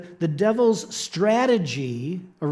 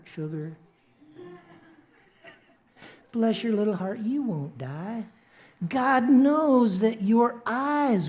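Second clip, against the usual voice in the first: put-on devil's North Carolina accent; 4 semitones higher than usual. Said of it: "the devil picks up on it, and he's like".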